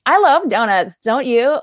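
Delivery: a touch of a high, perky commercial actor; mock cheerful ad voice. Actor mocking the smile-and-sell ad style, lightly high and perky. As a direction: oversell the donut like a grinning extra. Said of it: "to just be like".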